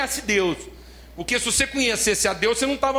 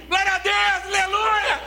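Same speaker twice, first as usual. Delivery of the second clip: high shouted glory hallelujah; crowd's eager cheer; 11 semitones higher, slower than usual. Retold or imitated. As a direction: explode with joy at the promise. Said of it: "Fala assim".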